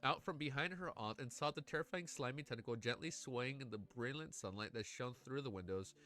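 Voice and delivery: steady storytelling read to the chat; story narration. A narrator's reading. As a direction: read the ending like an audiobook, savouring it. Reads a novel aloud.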